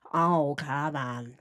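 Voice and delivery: low, drawn-out mocking voice; Kevin Kovac mockery. Shown as a demonstration. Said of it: "making fun of Kevin Kovac".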